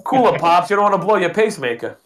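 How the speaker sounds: put-on a wise-guy Italian accent, ribbing the old man; a quick, hammed-up Italian accent. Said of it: "my Italian accent sounds like Rodney Dangerfield".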